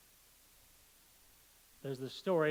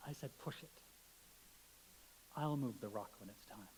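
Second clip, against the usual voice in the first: voice of God; 3 semitones higher than usual. Pretend. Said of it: "And the voice said".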